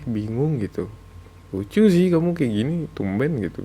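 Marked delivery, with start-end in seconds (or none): 1.5-3.6 playful delight. Acted. Teasing partner who cries at kindness.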